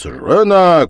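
loud, stern bark of a word; menacing shout. Acted. Husband silences his wife during the duel, menacing shout. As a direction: cut her off with a threat. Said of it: "крикнул грозно пан Данила".

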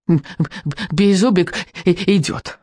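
stammering little dragon, solemn; small dragon stuttering proudly. Acted. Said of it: "торжественно отозвался дракончик".

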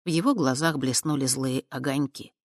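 plain reading voice

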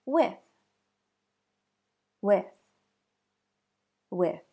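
"With" ending in an airy unvoiced th; "With" with the tongue tip out at the end; unvoiced TH demo. Shown as a demonstration. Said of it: "Next word".

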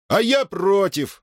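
high, slow outraged shout. Acted. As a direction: yell the protest out. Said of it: "закричал". (выкрикнуть, высоко и протяжно)

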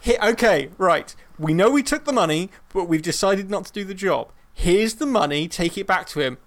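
a lightly voiced crew member handing back the cash; mock crew line. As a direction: hand the money back firmly. Acting Firefly crew returning money.

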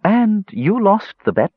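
high, drawn-out triumphant call; high-pitched gloating outcry; sudden cry. A narrator's reading. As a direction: crow it out in a high female character voice. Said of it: "the dark-haired beauty cried out suddenly".

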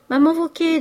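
smiling, lifted address; smiling reassurance. A narrator's reading. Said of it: "dit-il en souriant".

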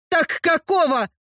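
indignant "какого" pushed hard; angry demand. Acted. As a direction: throw the question at him. Heroine demands an answer.

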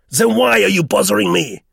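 high, loud, irritated squeak; irritable squeaky voice. A narrator's reading. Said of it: "His voice squeaked irritably".

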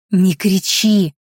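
slow, pressed hiss. A narrator's reading. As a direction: hiss a drawn-out hush. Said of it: "зашипела я".

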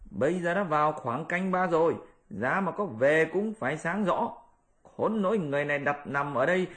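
high sly monkey voice; high Monkey King, plotting; Monkey King scheming. Acted. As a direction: set up the mourning ruse.

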